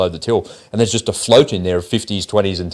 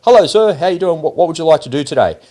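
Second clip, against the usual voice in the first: chirpy bank greeter; 5 semitones higher than usual. Retold or imitated. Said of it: "he says".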